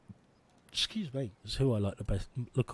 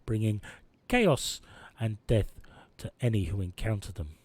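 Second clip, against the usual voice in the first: mock news read. Gamer reading event news, dramatic newsreader. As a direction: read it like a doom bulletin. Reads in-game news bulletin.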